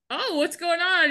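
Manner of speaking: high, slow, drawn-out imitation; mock innocent question. Acts Wolfgang arriving unaware.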